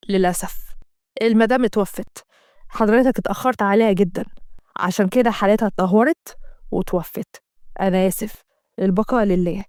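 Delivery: low, subdued doctor delivering grief; lightly voiced doctor breaking sad news; low solemn doctor; doctor's bad news. Doctor announces death.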